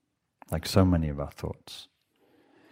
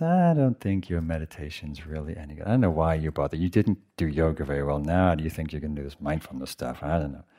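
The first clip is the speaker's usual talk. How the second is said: inner critic voice; 4 semitones lower, 3 dB quieter than usual. Retold or imitated. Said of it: "the critical voice comes up and says".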